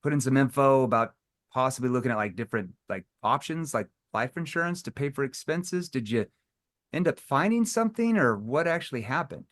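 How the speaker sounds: puzzled, unsure caller voice; mildly confused phone opener. Retold or imitated. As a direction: sound a little lost and confused. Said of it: "why would you use a confused tone".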